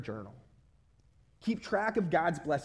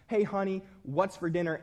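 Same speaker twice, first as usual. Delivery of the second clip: mildly frustrated husband calling out; a little frustrated; 2 semitones higher than usual. Acted. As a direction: ask with a touch of growing impatience. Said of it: "he's getting a little frustrated".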